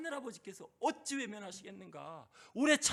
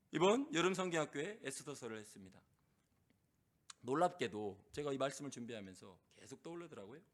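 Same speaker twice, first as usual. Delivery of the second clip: ordinary talk, nothing marked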